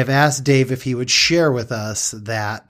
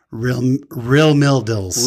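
put-on Utah accent; 4 dB louder, much slower than usual. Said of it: "people with Utah accents".

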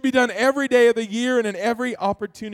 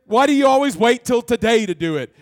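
angry mother; 6 dB louder than usual. Retold or imitated. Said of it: "she got mad".

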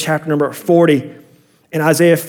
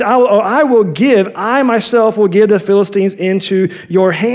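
"I myself" given firm emphasis, pitched higher; raised, emphatic declaration on "I myself will give"; emphatic promise; 4 semitones higher than usual. Acted. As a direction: lean firmly on "I" and "myself". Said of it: "It's emphatic".

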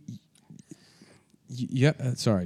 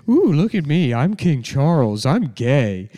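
mocking voice; much slower than usual. Shown as a demonstration. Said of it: "he'd be like".

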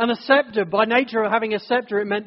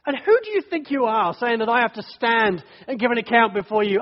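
indignant challenge; 2 semitones higher than usual. Retold or imitated. Voicing someone raging at God.

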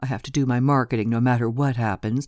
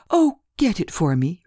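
urging; 5 semitones higher than usual. Acted. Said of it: "urged Lena".

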